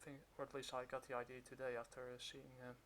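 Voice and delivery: muffled behind a mask; talking through a cloth mask; through a face mask. Real, not acted. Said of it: "I'm kind of wearing a mask right now".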